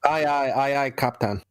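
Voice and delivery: attempted Scottish "aye, aye, Captain"; Scottish accent. Shown as a demonstration. Guest answers host's request to do Scottish, attempted Scottish accent. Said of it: "Can you do a Scottish accent?".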